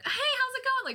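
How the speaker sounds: bright, high, cheery hello; chipper deli greeting. Retold or imitated. Deli woman greets a regular customer, high and chipper. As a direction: greet a customer with big smiles. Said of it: "she's usually always really chipper".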